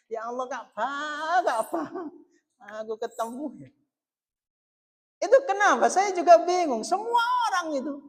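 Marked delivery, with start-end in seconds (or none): 0.1-3.7 Gus Bahak yearning. Retold or imitated. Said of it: "jare Gus Bahak".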